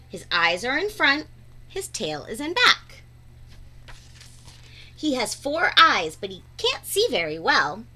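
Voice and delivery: lively storybook read-aloud with bouncy rhyme; reading to children. Acted. Teacher reading a beach picture book aloud to her students, lively storybook voice.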